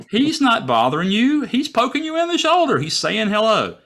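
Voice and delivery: high excited inner voice; excited self-talk. Retold or imitated. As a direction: talk yourself from fear into wonder.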